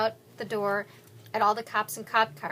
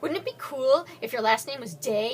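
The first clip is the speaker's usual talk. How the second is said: eager questions; 3 semitones higher, 5 dB louder than usual. Acted. Zach excitedly questions gunmen.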